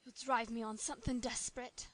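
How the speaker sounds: Nancy muttering. A narrator's reading. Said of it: "muttered the girl".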